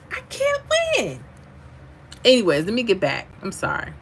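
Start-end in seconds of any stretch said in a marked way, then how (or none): 0.1-1.2 comic high-pitched complaint about never winning; mock wail. Shown as a demonstration. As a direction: leap far higher into a put-on exasperated wail.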